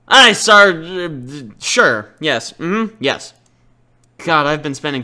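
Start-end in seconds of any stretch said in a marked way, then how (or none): 0.1-0.8 mock salute. Mock military reply.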